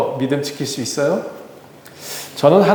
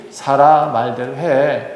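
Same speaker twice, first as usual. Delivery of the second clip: slow, gentle divine voice; reassuring God; slower than usual. Retold or imitated. God calming a worried Abraham, slow and gentle. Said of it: "하나님이".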